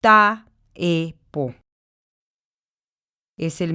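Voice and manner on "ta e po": each syllable of "ta, e, po" said apart, with a pause between; split into syllables. Shown as a demonstration. Teacher showing the syllables of poeta, separated. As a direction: sound out "ta, e, po" syllable by syllable. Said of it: "la separación silábica sería".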